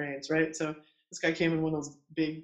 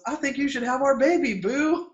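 high, louder sweet-talk; retold doting encouragement; 9 semitones higher, 5 dB louder than usual. Husband encouraging his wife to have their baby, doting. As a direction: cheer her on, imitating the husband.

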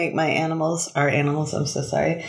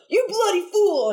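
shrieking duck; 13 semitones higher than usual. Retold or imitated. Duck cursing from nowhere at the cop, shrieked high. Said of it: "and you hear".

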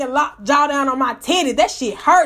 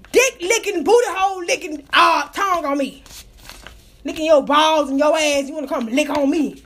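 mock-indignant scolding, higher than usual; retold cussing out; 5 semitones higher than usual. Woman retelling scolding the dog that licked her, mock-indignant. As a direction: tell the dog off, drawing out the insults. I cussed his ass.

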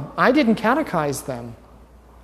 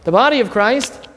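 raised, louder call for the response; prompting call; 4 semitones higher, 4 dB louder than usual. Shown as a demonstration. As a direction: call it out to draw the amen. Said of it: "What is your part to play?".

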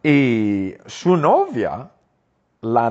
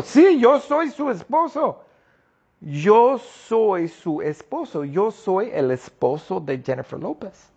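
voicing the husband; 10 semitones higher than usual. Husband introducing himself to the class, high and proud. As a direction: play the husband proudly owning up. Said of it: "es Sergeant Jeffrey Brown".

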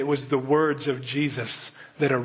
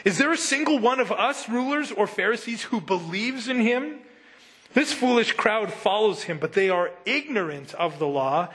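scornful Pharisee; 5 semitones higher than usual. Acted.

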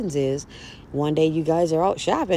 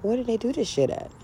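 mock outrage; 8 semitones higher than usual. A girlfriend hearing the ex call while out shopping, high incredulous outrage. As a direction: caught off guard, outraged. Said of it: "I'm like".

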